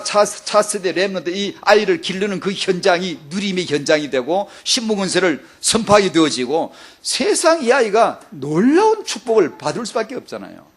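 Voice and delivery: ordinary talk, nothing marked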